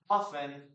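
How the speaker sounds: "often" said as off-en; silent T. Shown as a demonstration. Teacher gives the form they prefer, silent T. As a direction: drop the T in "often". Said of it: "I prefer to say often".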